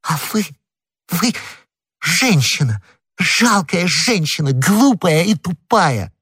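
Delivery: high, halting contempt; scornful insult. Acted. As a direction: break up the words, stretching the final insults. Wife and husband trade insults.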